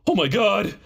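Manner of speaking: high mock gasping alarm; shocked plumber. Old plumber seeing the flooded bathroom, high shocked voice. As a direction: squeal it like a horrified old plumber.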